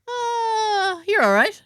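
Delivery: high, laughing through the words; laughing quote. Retold or imitated. Retelling the Wi-Fi guy's reply, laughing high. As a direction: crack up while quoting him.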